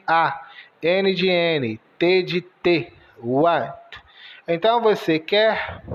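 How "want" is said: want with W sounding like "u", short "uónt"; want pronounced. Shown as a demonstration. Teacher models want after spelling it, W as "u". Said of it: "O W com o som de U".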